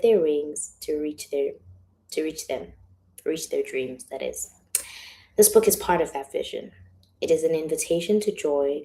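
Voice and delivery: projected, heartfelt reading that settles after the opening; reading a letter aloud. Acted. Author reading letter to her angels, projected and sincere.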